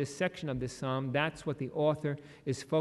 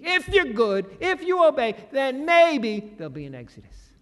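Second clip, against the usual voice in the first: higher and louder, a hammed-up demanding overseer; mock strict God; 7 semitones higher, 4 dB louder than usual. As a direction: play a stern God who rises higher with each condition. Hypothetical strict God demanding obedience.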